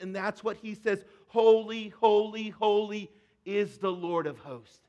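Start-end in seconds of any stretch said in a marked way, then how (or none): 1.3-4.8 proclaiming loudly. Retold or imitated. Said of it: "you were yelling at the audience".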